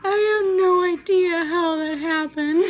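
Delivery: helpless laugh-crying through the words; laughing till crying. Real, not acted. Daughter retelling her blunder, crying with laughter. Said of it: "'cause I'm crying so hard".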